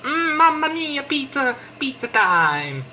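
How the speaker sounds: high, hammy Italian chef cry; jolly italian pizza chef. Pretend. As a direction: belt it like a cartoon pizza chef. Reacting to pizza recipe.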